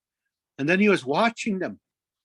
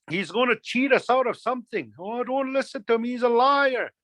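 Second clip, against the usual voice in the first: mildly raised, accusing mockery; mocking birds; 4 semitones higher than usual. Birds warning each other off a trickster, mocking. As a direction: call him out to the flock. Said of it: "they'd all start mocking him, saying".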